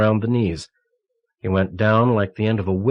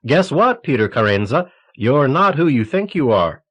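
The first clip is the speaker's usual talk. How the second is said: mock party shout, higher and louder, sneering at them; sarcastic mock announcement; 4 semitones higher, 4 dB louder than usual. Peter mocking the committee's surprise party, sarcastic and louder. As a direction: ham up a fake surprise reveal.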